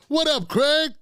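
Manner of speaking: high-pitched, hearty shout-out; excited high hail; calling out a greeting. Real, not acted. Greeting viewer Craig as he joins.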